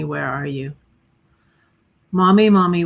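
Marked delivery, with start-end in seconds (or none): 2.1-2.8 louder, calling recital of the opening line; poem reading. Acted. She begins her poem for her late cousin, calling out. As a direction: open the poem like a child calling out. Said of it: "It's called Mommy".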